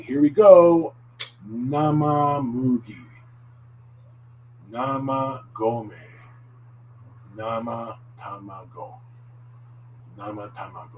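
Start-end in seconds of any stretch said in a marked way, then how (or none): 1.5-11.0 very slow nama mugi, nama gome, nama tamago; drawn out for learners to repeat; slow model reading. Shown as a demonstration. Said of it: "You can repeat after me".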